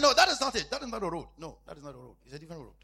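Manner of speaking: retold command. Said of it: "I said".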